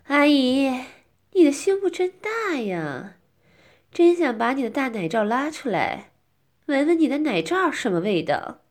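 huff, then speak up angrily; angry. Acted. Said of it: "小丽生气地说".

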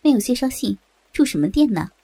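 brusque refusal, pitch jumping on the dismissal; understated scolding innkeeper; mild loud scolding. Acted. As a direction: send them away sternly, without really shouting. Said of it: "大声地说".

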